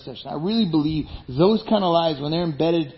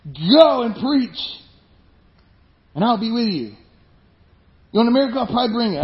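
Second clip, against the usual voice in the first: God's voice; 4 semitones higher than usual. Retold or imitated. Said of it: "'Cause it's God's voice".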